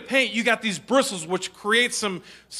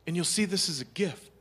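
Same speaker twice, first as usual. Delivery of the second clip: caring teacher; 3 semitones higher than usual. Retold or imitated. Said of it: "heart of a teacher who said".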